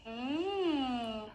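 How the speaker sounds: warm-up hum through the straw; short straw phonation hum. Shown as a demonstration. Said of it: "this is what I would do to warm up".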